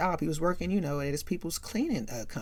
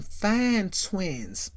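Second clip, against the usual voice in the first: admiring drawl; 3 semitones higher than usual. Retold or imitated. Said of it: "mm-mm-mm-mm-mm".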